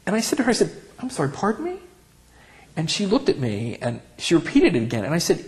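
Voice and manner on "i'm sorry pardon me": indignant disbelief. Retold or imitated. Indignant retort to old lady.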